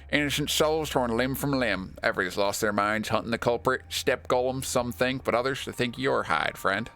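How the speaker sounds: lightly hammed cowboy telling of chaos. Bad Grief telling a friend of the mob, put-on cowboy voice. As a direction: play a put-on cowboy reporting trouble. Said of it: "he thinks he's turned into a cowboy".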